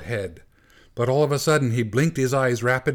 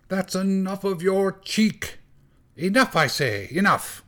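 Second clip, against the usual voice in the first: shouting angrily; 7 semitones higher than usual. Acted. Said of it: "was shouting and stamping".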